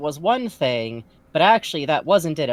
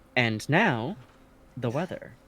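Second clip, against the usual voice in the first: slow, measured tv newscaster voice; 4 semitones lower, 6 dB quieter than usual. Playing a reporter during a scene, in a news reporter voice. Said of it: "Every time I do my this that reporter voice".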